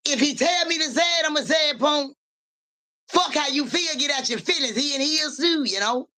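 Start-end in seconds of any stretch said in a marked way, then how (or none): 0.1-4.8 raised, fast and higher, daring anyone; defiant shout. Real, not acted. Defiant shout to the haters about saying it.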